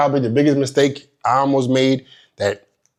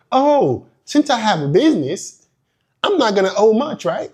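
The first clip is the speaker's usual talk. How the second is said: naive idiot voice; 6 semitones higher than usual. Retold or imitated. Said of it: "like an idiot".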